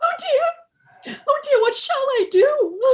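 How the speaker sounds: tearful wail, voice breaking; crying. Acted. Bride crying to her father on wedding morning. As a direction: sob out the words in bridal distress. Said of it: "There's Jenny at it now".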